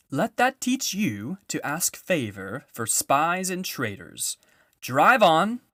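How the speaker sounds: high, loud scornful order; harsh witch. A narrator's reading. Witch scolding Edmund then ordering the dwarf, loud harsh command. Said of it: "said the witch".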